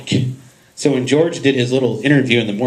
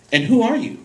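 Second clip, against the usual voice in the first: surprised wife imitation; 10 semitones higher than usual. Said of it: "look up at him and say".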